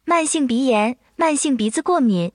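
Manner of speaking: AI voice. Acted. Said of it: "就请小小开始".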